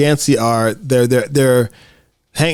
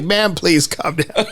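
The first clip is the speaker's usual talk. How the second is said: calming man voice; 4 semitones higher, slower than usual. Retold or imitated. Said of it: "It's like".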